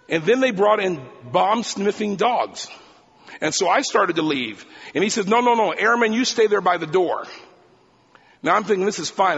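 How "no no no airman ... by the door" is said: louder, higher command to stay put; firm order. Retold or imitated. Agent orders the airman to stay by the door, louder. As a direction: halt the young airman at his post.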